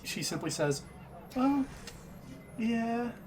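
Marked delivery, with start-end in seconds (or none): 1.3-3.1 nervously laughing it off; nervous laughter. Acted. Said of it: "releases a nervous laughter".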